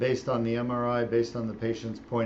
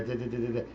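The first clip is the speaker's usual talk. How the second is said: imitated laser zapping; 4 dB quieter, faster than usual.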